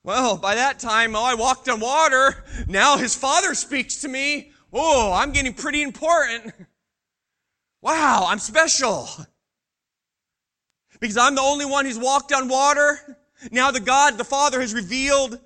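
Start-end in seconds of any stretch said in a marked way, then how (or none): 1.2-2.5 proud. Acted. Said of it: "secret pride that was growing". 2.7-12.5 self-important pride. Acted. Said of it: "secret pride that was growing".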